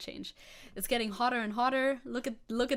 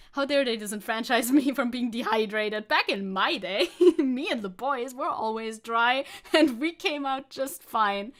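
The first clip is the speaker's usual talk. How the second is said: mock outrage; 6 dB louder than usual. Mocking outraged old man.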